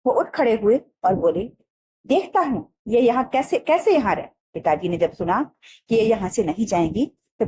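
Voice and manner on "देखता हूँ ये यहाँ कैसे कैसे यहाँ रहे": a high, hot-tempered vow from the father; the father, riled, rising on कैसे; angry father. Acted. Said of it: "पिताजी को गुस्सा आ गया".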